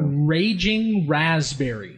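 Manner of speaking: put-on shitty Irish accent. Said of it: "in a really shitty Irish accent".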